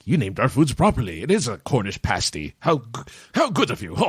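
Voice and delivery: lightly imitated British shopkeeper; mock British accent. British shop staff praising an American customer, imitated British accent. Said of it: "they have thick British accents".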